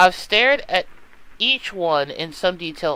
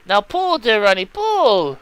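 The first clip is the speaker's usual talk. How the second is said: louder, straining plea to pull; urgent call; 3 semitones higher, 4 dB louder than usual. Acted. Natasha stuck in her bed urging Ronnie to pull. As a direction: cry out for help, drawing out the pull.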